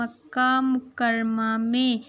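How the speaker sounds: put-on drawn-out answer for children to repeat; slow answer to the children; slow model answer. Shown as a demonstration. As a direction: say it slowly and clearly. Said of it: "हम्म".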